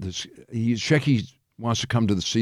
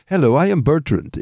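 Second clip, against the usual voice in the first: higher, mock French introduction; hammed-up French accent; 4 semitones higher than usual. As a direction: announce yourself in a fake French accent. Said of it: "he had this French accent".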